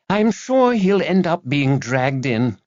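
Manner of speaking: slow, ruthless assurance. A narrator's reading. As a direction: say it with ruthless certainty. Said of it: "with a ruthlessness".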